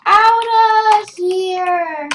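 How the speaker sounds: high, loud, sing-song alarm cry; mock panicked yell. Shown as a demonstration. Showing viewers the wrong way, a hammed-up panicked yell. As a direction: ham up a frantic guard. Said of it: "you might not speak like this".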